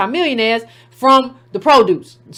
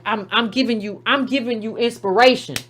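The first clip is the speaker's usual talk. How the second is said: a hint of a coy quiet voice, softer; mock crafty rapper; 3 semitones lower, 4 dB quieter than usual. Mocking a rapper's excuse to fans, lightly voiced and softer. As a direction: play him sly and self-satisfied. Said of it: "you just try to be crafty and like".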